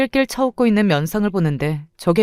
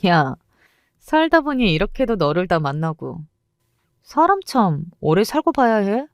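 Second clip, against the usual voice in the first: gleeful gloating; 2 semitones higher than usual. Acted. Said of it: "신나서 날뛰는 강미영이었습니다".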